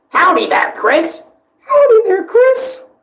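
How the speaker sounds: very high, squeaky character voice, pitch swooping wildly. Showing how he does the Spamton voice, all vocals, no editing. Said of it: "I'm also going to show you how I do the Spamton voice too".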